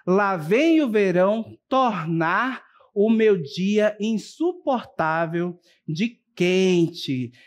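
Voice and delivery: slow, deliberate reading of a cartoon caption; reading the example. Shown as a demonstration. Teacher reading the cartoon caption slowly to students, deliberate. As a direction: read the sentence out slowly for the class. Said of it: "observem que aqui eu tenho outra frase".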